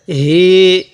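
"হি" held as a long vowel; one-alif stretch. Shown as a demonstration. Teacher explaining madd to learners, long drawn "হি". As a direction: draw out the "ee" of "হি". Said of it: "এক আলিফ টান হবে".

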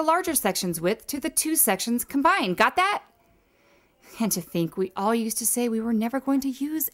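lecturing like a stuffy professor; formal, know-it-all lecture delivery. Acted. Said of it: "I may have had to use my professor voice".

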